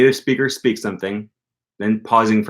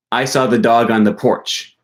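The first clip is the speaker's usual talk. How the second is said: saw stressed; 3 dB louder than usual. Shown as a demonstration. Teacher shows stress on saw. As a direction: hit the word saw. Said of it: "where you put the stress in your sentence".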